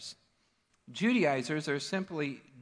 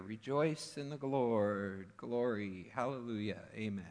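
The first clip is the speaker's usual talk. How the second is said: churchy; 3 semitones lower than usual. Acted. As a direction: draw it out like pious church talk. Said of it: "could sound pretty churchy".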